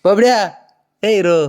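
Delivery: high, loud name call; calling pet. Real, not acted. Owner calling her dog by name, high and loud. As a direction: sing out the pet's name.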